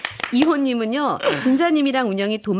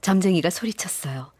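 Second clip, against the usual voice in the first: low, soft storyteller voice; story narration; 6 semitones lower, 5 dB quieter than usual. A narrator's reading. Narrator introduces a bystander's question to Teuk, soft storytelling. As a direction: step back and narrate, lowered.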